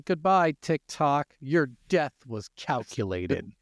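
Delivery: slow, solemn mock eulogy; mock dramatic farewell. Podcaster bids the banned app a mock dramatic goodbye. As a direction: play it as a hammed-up funeral line.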